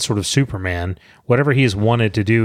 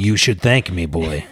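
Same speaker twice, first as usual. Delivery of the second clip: megalomaniac rant; 4 semitones lower than usual. Retold or imitated. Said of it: "he gets to indulge in a major villain monologue".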